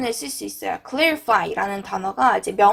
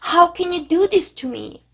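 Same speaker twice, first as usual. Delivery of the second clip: slow, higher hurt protest; 감정이 상한 듯; 6 semitones higher, much slower than usual. Shown as a demonstration. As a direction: draw it out as a wounded reproach. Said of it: "막 이럴 때". (서운한 듯 높고 느리게 원망하기)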